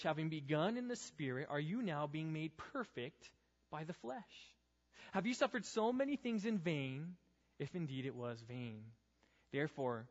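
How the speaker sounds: measured Bible reading to the youth group; scripture reading. Acted. Reads Galatians 3 aloud.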